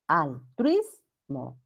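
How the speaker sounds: Altruismo slowly in chunks, al-TRUIS-mo, ui as one syllable; diphthong in Altruismo. Shown as a demonstration. Teacher shows the diphthong, Altruismo slowly split al-truis-mo. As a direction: sound out Altruismo by syllables, keeping truis together. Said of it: "No es altruismo".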